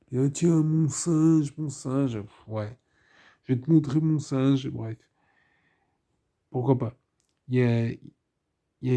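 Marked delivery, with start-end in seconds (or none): 0.2-2.2 a hint of a crazed emperor, slow and drawn out; lightly voiced mad emperor savouring each word; mad decadent emperor. Reviewer imitating the film's mad emperor, lightly voiced and slow. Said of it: "d'un empereur décadent, un peu fou". 3.4-4.7 mad emperor. Retold or imitated. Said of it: "d'un empereur décadent, un peu fou".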